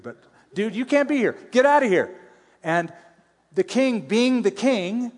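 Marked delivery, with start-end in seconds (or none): 0.5-1.4 higher, sharper rebuke of the priest; imitating a stern priest. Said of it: "the priest saw him and said". 1.5-2.2 higher, louder, imitating the priest ordering him out; mock shout. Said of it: "the priest saw him and said".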